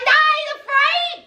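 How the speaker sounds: defiant denial. Retold or imitated. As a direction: scoff it off proudly. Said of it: "She was like".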